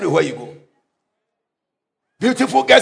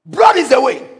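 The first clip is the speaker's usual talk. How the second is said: raised repeat; 5 semitones higher than usual. Shown as a demonstration.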